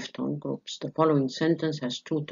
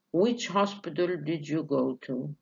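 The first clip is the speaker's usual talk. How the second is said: bored fall; slower than usual. Shown as a demonstration. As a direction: ask it flatly bored. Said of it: "This is boredom". (سؤال بملل من غير طلوع)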